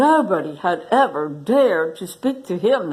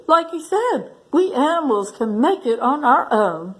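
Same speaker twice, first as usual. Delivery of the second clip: piped up; 5 semitones higher than usual. Acted. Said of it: "piped up the warthog".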